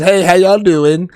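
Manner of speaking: slow, light Texas twang; drawn-out greeting with a hint of Texas; Doctor Now. Doctor greeting patients as they come in, light Texas twang. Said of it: "he talks with, like, a Texas twang".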